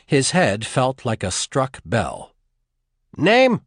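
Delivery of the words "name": sharp, loud, high bark. A narrator's reading. Soldier barks at the strapped-down prisoner, loud. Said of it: "the soldier barked".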